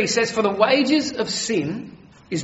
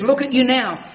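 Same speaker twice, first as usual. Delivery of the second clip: mocking crowd yell; 5 semitones higher, 4 dB louder than usual. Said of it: "they yelled at him".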